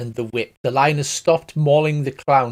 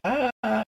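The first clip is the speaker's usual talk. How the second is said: mock screaming; 8 semitones higher, 5 dB quieter than usual. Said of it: "They're, like, screaming".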